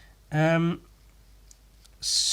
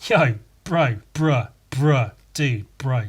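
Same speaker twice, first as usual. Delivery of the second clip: bro-ish telling off; 5 dB louder than usual. Retold or imitated. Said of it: "it wasn't like".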